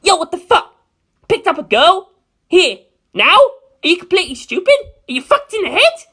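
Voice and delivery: high, loud mocking yell; jeering shout at his friend; yelling Narancia. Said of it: "he yelled".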